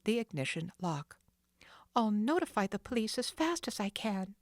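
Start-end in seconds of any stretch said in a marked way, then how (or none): 2.0-4.4 put-on higher, determined girl's voice; Nancy deciding. Nancy planning to call police, determined. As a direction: resolve quickly. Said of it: "she decided".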